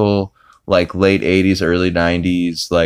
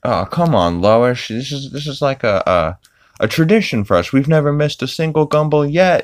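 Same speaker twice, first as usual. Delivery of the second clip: whiny Peter; 8 semitones higher than usual. Retold or imitated. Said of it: "Peter's like".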